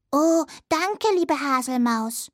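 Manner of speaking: lightly voiced little dormouse; a young dormouse, just a touch brighter; little dormouse child. (leicht verstellte Stimme eines kleinen Siebenschläfers)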